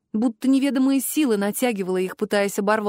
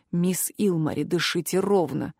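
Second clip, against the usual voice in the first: low, soft, husky murmur; hoarse, close to the ear; 5 semitones lower, 3 dB quieter than usual. A narrator's reading. The curator holds the student against the trunk, hoarse in her ear. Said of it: "хрипло произнёс в самое ухо куратор".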